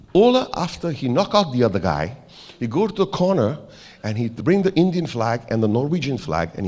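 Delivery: lightly imitated Norwegian accent; touch of mock Norwegian; bad Norwegian accent. Norwegian manager explains the third picture, light Norwegian accent. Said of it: "I'm doing a very bad accent".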